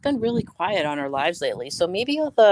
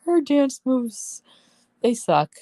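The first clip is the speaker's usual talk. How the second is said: laughing; 8 semitones higher, slower than usual. Real, not acted. Still laughing.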